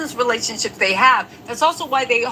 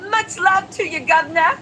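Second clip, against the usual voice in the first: put-on English accent; 3 semitones higher than usual. Shown as a demonstration. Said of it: "That's my English accent".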